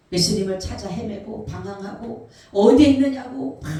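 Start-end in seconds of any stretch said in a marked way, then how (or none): 2.5-3.6 loud, high cry of searching; acted desperate call. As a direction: shout it out like someone lost. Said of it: "소리치지만".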